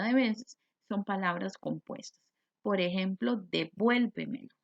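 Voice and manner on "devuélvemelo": "devuélvemelo" said slowly, leaning on VUEL; stress on VUEL. Shown as a demonstration. Teacher giving an example word, "devuélvemelo" slow and stressed on vuel. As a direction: draw out "devuélvemelo" with the weight on vuel. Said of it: "Lleva el acento en vuel".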